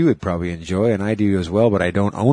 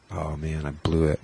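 holding back a sneeze; stifled sneeze; 6 semitones lower, 6 dB quieter than usual. Real, not acted. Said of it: "a suppressed sneeze".

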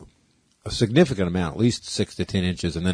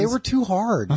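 high, laughing through the words; 11 semitones higher than usual. Real, not acted. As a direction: say it while laughing. Laughing about hard candies.

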